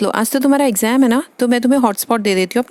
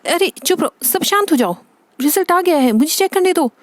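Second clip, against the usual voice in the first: tense mother demanding silence; flustered hushing; 4 semitones higher than usual. Acted. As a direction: settle everyone down anxiously. Anxious mother silencing family over result.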